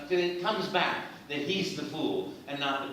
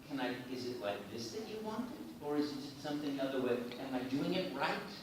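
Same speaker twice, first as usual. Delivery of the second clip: softer, hesitant questions; asking permission; 6 dB quieter than usual. Retold or imitated. Other actors asking the producer at audition, soft and unsure. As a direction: check timidly, seeking approval. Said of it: "was asking permission".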